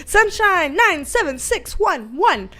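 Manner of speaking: slow numbers read like an automated phone line; mock automated phone readout. Shown as a demonstration. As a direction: drone the digits like a robot operator. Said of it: "that is like a phone".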